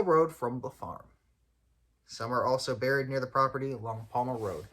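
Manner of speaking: measured brochure reading, phrases carefully spaced; read-aloud article. Acted. Podcaster reads the farm's write-up to listeners, measured read-aloud. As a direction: read out the written history evenly.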